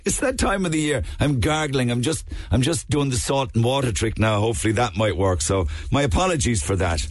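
rough, hoarse from a cold. Real, not acted. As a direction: talk through a sore, hoarse throat. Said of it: "you're not keeping well".

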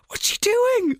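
disbelieving question; incredulous. Real, not acted. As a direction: react in shocked disbelief. Reacting to the character's actions.

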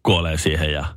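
normal talking voice

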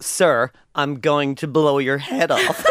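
slow, deliberate mock threat; measured and courteous, with menace underneath; polite threat. American using sir as a threat, slow and deliberate.

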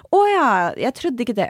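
imitating a doubting acquaintance; mock disbelief. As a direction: sound doubtful and surprised. Mimicking doubtful people.

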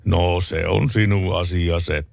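slow, lightly voiced unbothered farmer; calm husband. Husband reading the paper, slowly shrugging it off. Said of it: "tuumasi isäntä".

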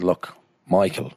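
put-on doctor with a Dublin 4 accent. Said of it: "gave him a D four accent".

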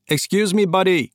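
high-pitched hail in broad American; American-accented call. A narrator's reading. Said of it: "ropte jeg gjennom rommet med en bred amerikansk aksent". (høyt tilrop med bred amerikansk aksent)

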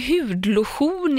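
"hudlotion" with lotion as lo-SCHON; Swedish-style "lotion". Retold or imitated. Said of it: "varför säger ni lotion". (försvenskat "hudlotion")

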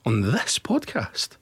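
a pretend stern father laying down the law; mock scolding. Host forbids rugby on the football podcast, mock-stern and low.

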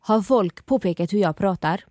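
a light, unsure attempt at a Skövde accent; mild Skövde accent impression; Skövde dialect. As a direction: copy your friend's Skövde way of speaking. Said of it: "säg det på min".

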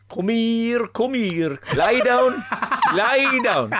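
high, firm calls to a dog; dog-command voice. Shown as a demonstration. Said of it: "mine is".

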